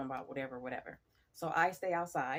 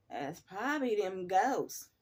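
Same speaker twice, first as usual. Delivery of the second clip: coworker's spooky answer; 2 semitones higher, slower than usual. Retold or imitated. Coworker voiced, slow spooky answer.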